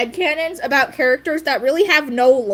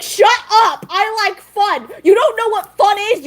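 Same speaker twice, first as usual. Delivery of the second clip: higher-pitched mock outburst at an uncle; playful indignant retort; 5 semitones higher than usual. Niece talking back to her nagging uncle, mock indignant. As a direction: talk back in hammed-up indignation.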